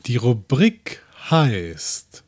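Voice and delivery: hoch, sehr langsam, wie nach Helium; Heliumstimme. Shown as a demonstration. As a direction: sprich wie mit Helium in der Lunge. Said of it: "mit Helium". (Heliumstimme, gedehnt)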